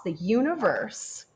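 breathy hush for the universe; whisper. Acted. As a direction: let it fade into a hushed whisper. Dreamy ending of vast idea.

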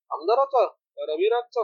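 sharp high rise of disbelief; stunned double-check, high and loud; shocked disbelief. Acted. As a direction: hit it like the news just landed. Shocked at news of murder.

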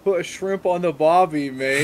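a quick, hammy Australian accent on the catchphrase; mock Australian accent. Shown as a demonstration. Asked by his co-host to demo an Australian accent, a light mock Australian accent. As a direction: toss off the Aussie line like a tourist impression. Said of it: "Do you have a good Australian accent?".

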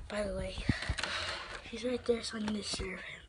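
whispered, sneaking up on his brother; sneaky whisper. Real, not acted. Sneaking up on Hulk, he whispers to the camera. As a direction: hush it so Hulk won't hear.

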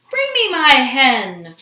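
loud, slow, falling roar; giant's roar. A narrator's reading. Greedy giant demands his hen from the cook, roaring. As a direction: roar the order, drawing it out. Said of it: "roared the greedy giant".

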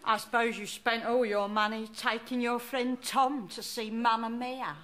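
a cantankerous old London nan, put-on voice; put-on Cockney nan. Nan scolding her grandson, in a put-on old Cockney voice. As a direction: play the grumpy nan who wants no presents. Nan indignant about no present.

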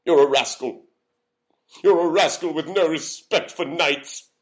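loud theatrical outrage; indignant scolding. Acted. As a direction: denounce the seller in a huff. Knight insults the seller.

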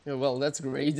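dry, deadpan sarcasm; sarcastic. Real, not acted. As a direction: say it like it's anything but great. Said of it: "so sarcastically".

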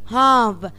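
"هاف" said as haf, with no L sound; half said without the L; silent L demo. Shown as a demonstration. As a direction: model "هاف" leaving out the L. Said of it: "نطقت ال L؟ ... سايلنت".

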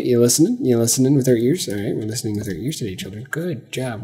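put-on sing-song talking down to little kids; preschool teacher voice. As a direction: coo at them like a kindergarten teacher. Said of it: "Wow, I sound like a preschool teacher".

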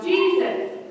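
a high, loud shout of the answer; child's yell. Retold or imitated. Little boy yells the answer to the pastor, high and loud. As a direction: call it out like an eager child. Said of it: "a little boy yelled".

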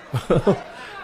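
soft laugh rising at the end; chuckle. Real, not acted. Commentator amused at the fighter's embarrassment, soft chuckle. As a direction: chuckle quietly.

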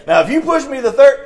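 high, loud schoolyard warning; hammed-up final warning; mock escalating threat. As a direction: act worked up and ready to fight.

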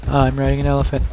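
very high, squealing joyride cheer; gleeful character voice. Acted. Gamer voicing his character riding an elephant, giddy whooping. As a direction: whoop high, easing down as it goes. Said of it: "He's like".

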